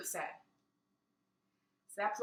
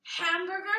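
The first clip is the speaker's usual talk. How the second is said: reluctant dread; 9 semitones higher, 5 dB louder than usual. Real, not acted. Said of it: "I can't say it, ugh".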